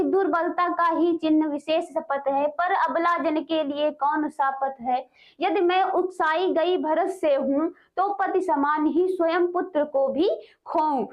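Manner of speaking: slow, measured poem reading; teacher reciting a poem; verse recitation. Acted. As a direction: read the verse out line by line, drawing out the words. Reads verse aloud.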